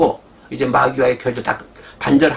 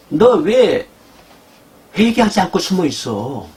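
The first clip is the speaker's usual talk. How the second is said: God's sharp rebuke; 4 semitones higher, slower than usual. Acted. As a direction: call the hiding sinner out. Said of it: "지금 하나님 말씀 이 말씀이에요".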